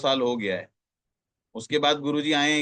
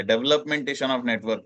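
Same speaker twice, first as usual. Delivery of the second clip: slow term stress; much slower than usual. Shown as a demonstration. Trainer repeats the key term to the team, very slow and deliberate. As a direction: say developmentation slowly, word by word. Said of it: "diamond, blue diamond level".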